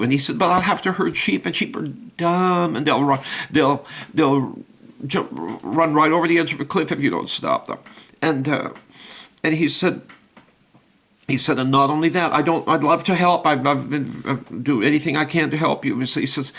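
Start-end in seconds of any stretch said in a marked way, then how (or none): 0.4-7.8 higher, earnest dog voice; a helpful dog explaining herding to God; eager dog. Acted. 11.6-16.0 higher, earnest dog voice; a helpful dog explaining herding to God; eager dog. Acted.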